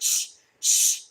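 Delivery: soft unvoiced shush; whispered shh shh. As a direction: hush her like a child. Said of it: "told her".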